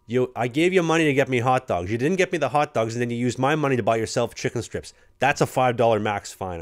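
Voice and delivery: mock-angry vet laying down the fine; mock scolding. Vet scolds rookie for buying chicken strips, mock scolding.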